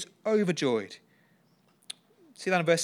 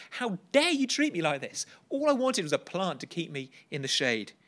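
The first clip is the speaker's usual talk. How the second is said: furious Jonah; 3 semitones higher than usual. Retold or imitated. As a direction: hurl it at God, offended. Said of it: "He is furious".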